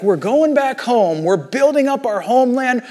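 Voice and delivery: lightly acted excitement, pitch lifted; mildly excited retold quote; excited builders. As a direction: imitate builders cheering themselves on. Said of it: "they must have been excited".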